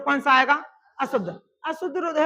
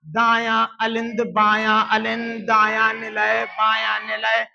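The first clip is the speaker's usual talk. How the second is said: slow recitation; 3 semitones lower, slower than usual. Shown as a demonstration. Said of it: "teacher recites four heart chambers".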